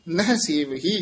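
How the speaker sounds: rest fully on ਸੇਵਹੀ; full pause after ਸੇਵਹੀ. Shown as a demonstration. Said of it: "ਇੱਥੇ ਵਿਸਰਾਮ".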